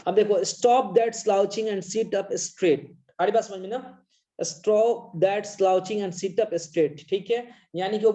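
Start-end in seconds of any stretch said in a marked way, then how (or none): 0.4-2.8 slow, deliberate reading aloud; slow poem reading. Shown as a demonstration. Teacher reading the mother's line to the class, slow and deliberate. 4.4-7.1 slow, deliberate reading aloud; slow poem reading. Shown as a demonstration. Teacher reading the mother's line to the class, slow and deliberate.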